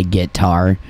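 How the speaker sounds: guitar said like "git tar"; country pronunciation. Shown as a demonstration. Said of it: "are you gonna go get tar".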